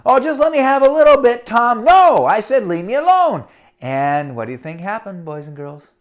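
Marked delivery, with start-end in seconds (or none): 0.1-1.8 whiny begging. Acted. Boy begging brother. 1.8-3.4 angry refusal. Acted. Brother refusing angrily.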